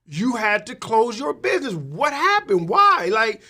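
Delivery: can't believe the family business is gone; shocked disbelief. Retold or imitated. Asking a friend why his legacy business closed, shocked. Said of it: "And I'm like".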